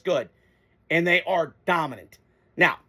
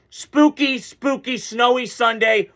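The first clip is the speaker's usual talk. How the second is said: playful spooky; 4 semitones higher, slower than usual. Pretend. To his viewers on a snowy Sunday, playfully spooky. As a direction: tease it like a spooky tale.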